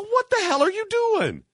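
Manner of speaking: angry shout. Retold or imitated. Traveller yelling at a man standing on his laptop, angry shout. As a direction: blow up at him.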